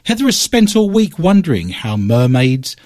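theatrical host's opening patter; radio show announcer. Acted. Host opening his paranormal quiz show to listeners, theatrical announcer read. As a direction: sell the show like a late-night radio host.

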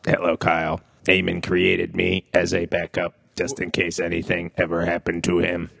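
flat stiff robot voice; toy robot voice. Pretend. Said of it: "Eamon Bot".

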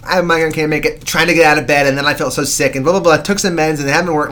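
mock pleading list of excuses; over-explaining excuse. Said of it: "so much explanation, trying to justify it".

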